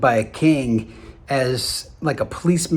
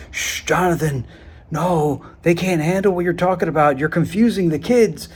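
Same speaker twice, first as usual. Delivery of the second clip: higher, lightly voiced hushing grown-up; shushing teacher; 4 semitones higher than usual. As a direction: hush him like a worried teacher, a bit higher. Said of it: "teachers and parents used to say to me".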